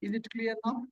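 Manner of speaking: very faint voice checking the line; faint, barely audible question through the mic. Real, not acted. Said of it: "can you try more, more time now?".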